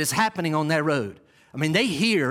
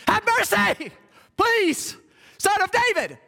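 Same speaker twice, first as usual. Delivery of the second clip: desperate, high-pitched begging yell; crying out; 14 semitones higher than usual. Acted. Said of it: "And I can't yell full throat".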